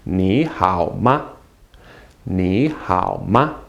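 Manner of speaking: slow, low "Ni hao ma" for repeating; teacher's drawn-out demonstration; slow model phrase. Shown as a demonstration. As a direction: sound out Ni, hao, ma one by one. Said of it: "Say that with me".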